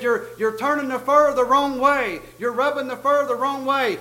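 heckler's retold yell. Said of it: "somebody yelled from the back".

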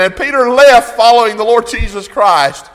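usual speaking voice

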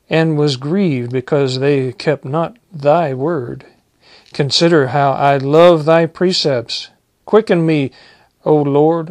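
solemn King James reading voice; scripture reading. Acted. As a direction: proclaim the verses to the church. Preacher reads next psalm passage.

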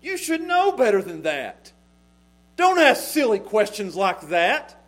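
imitating an exasperated parent; mock parental scolding. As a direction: scold a child for a silly question, half in play. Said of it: "if one of my kids come to me and said".

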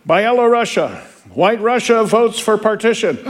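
roll call announcer. Acted. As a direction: announce the country to the hall.

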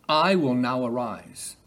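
slow savouring. Acted. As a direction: linger over each word of "I will now arise". Repeats phrase to savour it.

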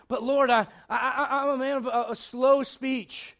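hesitant, stretched-out delivery; halting slow speech. Acted. Moses excusing himself to the Lord, halting and slow. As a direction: stammer on "I", then drag out the words. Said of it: "what Moses' speech impediment was".

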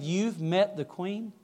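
slow, hushed-leaning question of wonder; awed. Retold or imitated. American tourist asks the bodyguard about the Queen, in mild awe. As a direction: ask it slowly, mildly awestruck. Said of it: "and in awe".

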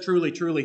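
"truly, truly" with mild added weight; emphasis on "truly, truly". Retold or imitated. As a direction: lightly stress both words of "truly, truly". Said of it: "he's putting an emphasis on that word".

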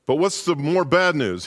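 high, frantic wife pleading; anxious young wife voice; panicked wife. Acted. Wife presses the pilot.

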